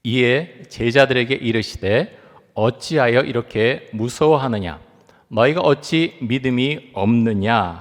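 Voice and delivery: slow, measured scripture recitation; scripture reading. Shown as a demonstration. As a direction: read the verse aloud slowly and solemnly. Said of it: "우리 같이 한번 읽겠습니다".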